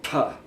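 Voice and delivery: a hard burst of air on pa; popping plosive. Shown as a demonstration. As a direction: blow the pa hard into the mic. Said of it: "the microphone picks that up".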